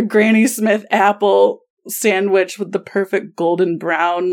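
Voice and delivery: laughing, drawn out. Real, not acted. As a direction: savor it through laughter. Describing sandwich, laughing.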